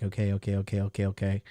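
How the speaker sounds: low, soft muttered okays; subdued, contained nervous waiting; keeping cool. Retold or imitated. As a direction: repeat it quietly to hold yourself together. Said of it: "keeping it cool externally".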